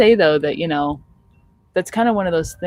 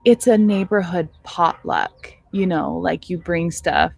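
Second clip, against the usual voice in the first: patient explaining; slower than usual. Retold or imitated. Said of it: "Latali turns to me and she goes".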